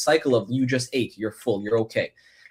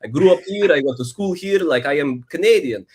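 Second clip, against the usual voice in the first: raised, louder mock disbelief; indignant protest; 5 semitones higher, 4 dB louder than usual. Retelling a reply to nurses, raised and indignant. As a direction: insist you were born here, taken aback. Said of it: "And I was like".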